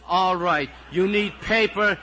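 high, loud tirade building to a shout; exasperated outburst. Acted. Teacher snapping at the whole class, exasperated outburst. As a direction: give up and yell permission for everything.

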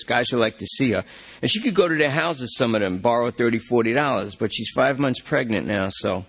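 desperate junkie. Acted. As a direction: beg the cop to check the system. Lester talks about girlfriend.

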